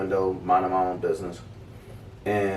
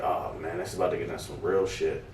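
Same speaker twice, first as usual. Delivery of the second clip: soft, quick under-the-breath worry; hushed and hurried; muttered dread; 4 semitones lower, 10 dB quieter than usual. Retold or imitated. Dread inner thought.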